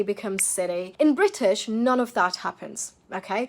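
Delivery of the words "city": CITY with T turned to D; American flapped T. Shown as a demonstration. Teacher showing American English, D-like T in CITY. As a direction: say CITY like "siddy". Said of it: "to a D sound".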